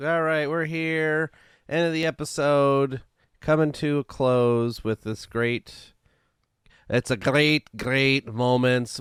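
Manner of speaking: slow, drawn-out attempt at a Scottish accent; a fumbled, hammed-up Scottish accent; bad Scottish accent. Podcast host opening his segment, in a bad Scottish accent. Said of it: "I was trying to do, like, a Scottish".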